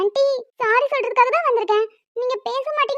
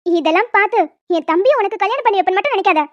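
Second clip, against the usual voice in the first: low, loud scornful refusal; angry sister; 4 semitones lower, 4 dB louder than usual. Acted. Elder sister refusing the apology, scornful. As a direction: shut the apology down.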